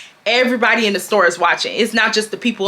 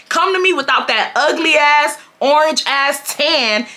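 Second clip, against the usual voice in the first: higher, building sassy read-out; retold read; 4 semitones higher than usual. Reading the customer who called her fat, higher and sassy. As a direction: lay into her, each line a jab.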